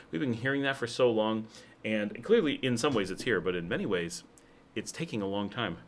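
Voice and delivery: talking while crunching ice; ice in mouth. Real, not acted. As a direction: speak around a mouthful of ice. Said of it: "Sorry, chewing ice".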